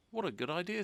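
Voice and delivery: high, eager exclamation; young dragon thrilled by the offer; delighted. A narrator's reading. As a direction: pop up with glee. Zog delighted by idea.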